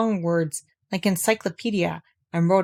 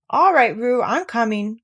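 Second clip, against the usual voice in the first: louder call across the stream; 3 semitones higher, 4 dB louder, slower than usual. Acted. Christopher Robin running to rescue Roo, calling out. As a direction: call ahead as you run. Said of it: "called Christopher Robin".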